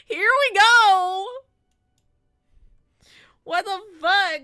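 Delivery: loud, high exasperated shout; exasperated yell. Real, not acted. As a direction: blow up in exasperation. Outburst at chat.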